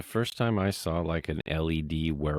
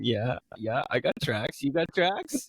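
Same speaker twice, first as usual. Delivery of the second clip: cocky taunt; 6 semitones higher, slower than usual. Retold or imitated. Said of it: "looking at the other D J going".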